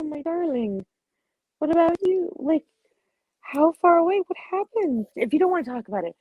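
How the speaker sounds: put-on high, gentle coaxing of a child; tender. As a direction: coax a shy child into talking. Character soothes child, high voice.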